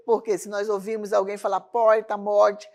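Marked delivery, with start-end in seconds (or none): 1.6-2.7 southern Brazilian accent. Shown as a demonstration. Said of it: "vai achar que é lá do sul".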